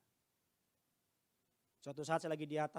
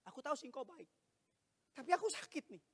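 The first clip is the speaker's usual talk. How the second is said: acted lament; 12 semitones higher than usual. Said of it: "Engkau bilang gini".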